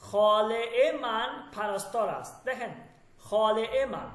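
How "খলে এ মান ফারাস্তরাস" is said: খলে এ মান ফারাস্তরাস said slowly, each word spelled out in sound; teacher slowly models খলে এ মান ফারাস্তরাস; slow Persian demo. Shown as a demonstration. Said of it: "যেমন দেখেন".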